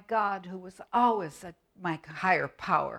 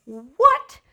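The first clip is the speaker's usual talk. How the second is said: much higher, loud quavery granny; old granny voice; 9 semitones higher, 9 dB louder than usual. Pretend. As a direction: greet them as a fussing granny. Granny objects.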